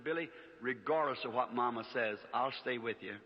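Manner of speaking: low, gentle loyal promise; tender reassurance. Retold or imitated. Crying fiancée pledges loyalty, retold.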